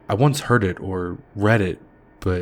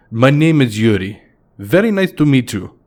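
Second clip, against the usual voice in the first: put-on higher Russian accent with a smile; a friendly Russian introducing himself; Russian accent, higher and smiling; 5 semitones higher, 5 dB louder than usual. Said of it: "he said with a smile".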